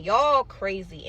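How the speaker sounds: slow, stretched disbelief; slow and pointed; drawn-out accusation. Real, not acted. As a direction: spell out that everyone's crazy.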